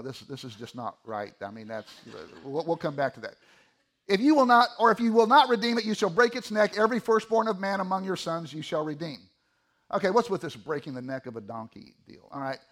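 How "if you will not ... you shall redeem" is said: scripture reading. Acted. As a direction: read the verse out with deliberate weight.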